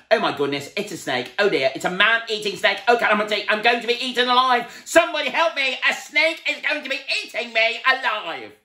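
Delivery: high, loud terrified wailing; panicking. A narrator's reading. Mister Jelly mistaking the worm for a snake, loud terrified wail. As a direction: wail about being eaten.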